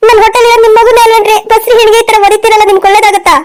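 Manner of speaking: wounded, pleading protest; tearful reproach. Acted. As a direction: plead as a hurt pregnant wife. Pregnant wife pleads after being hit. (ನೊಂದು ಅಳುತ್ತಾ ಪ್ರಶ್ನಿಸುವ ಧ್ವನಿ)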